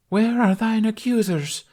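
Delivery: high, loud theatrical demand; stage knight. A narrator's reading. Knight asks Lunette for her accusers, high and demanding.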